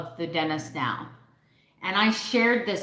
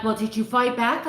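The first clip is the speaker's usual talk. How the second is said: high, louder mock question; mock staff asking; 5 semitones higher, 4 dB louder than usual. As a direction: mimic the staff's doubtful question. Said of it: "they're like".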